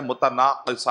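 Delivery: متناقصہ said clearly as mu-ta-naa-qi-sa; correct pronunciation. Shown as a demonstration. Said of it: "جو بالکل صحیح pronunciation ہے". (متناقصہ کا بالکل صحیح تلفظ)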